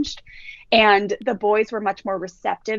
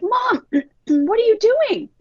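put-on high, slow, whiny kid voice with a cry; upset kids; 13 semitones higher, 4 dB louder, much slower than usual. Boys protesting as mom turns the van around, whiny and high. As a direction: wail it like a shocked little boy.

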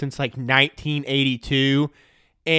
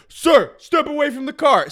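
higher, louder mock police order; cop command; 10 semitones higher, 4 dB louder than usual. Cops ordering Brian Cashman away from his car, mock command. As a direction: bark it like a cop on a stop.

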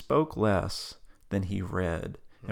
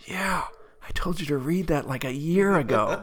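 higher, laughing tease; laughing reply; 8 semitones higher, 4 dB louder than usual. Retold or imitated. Answering his friend's whisper, laughing and higher.

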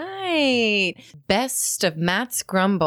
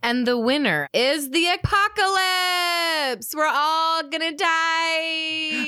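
suspenseful awards presenter; 7 semitones higher than usual. Pretend. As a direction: build suspense, then deliver doom. Announcing the award winner.

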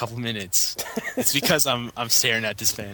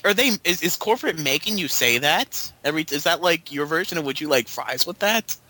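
mocking; 5 semitones higher than usual. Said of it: "I was like".

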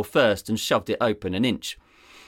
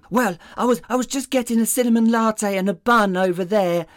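much higher, dopey sidekick voice; dim deputy voice; 12 semitones higher, 4 dB louder, faster than usual. Acted. Deputy rambling to his boss about coffee, dopey and high. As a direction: play the clueless deputy.

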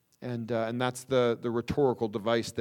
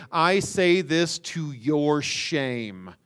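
slow, pointed I say this to your shame; direct rebuke; much slower than usual. Retold or imitated. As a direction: say it plainly to their faces, slowly. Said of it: "he says it very directly".

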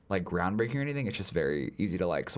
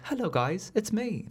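friendly rock monster; 12 semitones higher, slower than usual. Retold or imitated. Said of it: "imagine him being like".

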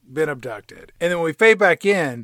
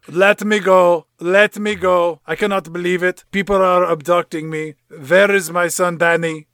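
Moreau voice; 4 semitones higher, 4 dB louder than usual. Acted. Voicing Moreau, abducted.

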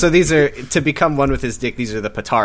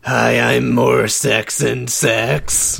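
different reading voice; much slower than usual. Acted. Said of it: "you sound different this time".

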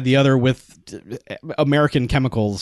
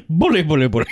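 laughing; 5 semitones higher, faster than usual. Retold or imitated. Laughing mock posh exclamation.

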